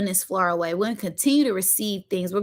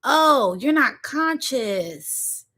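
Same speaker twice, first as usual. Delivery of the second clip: mocking laughing retort; 5 semitones higher, much slower than usual. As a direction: laugh at him and talk down to him, pitched up. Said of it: "I said".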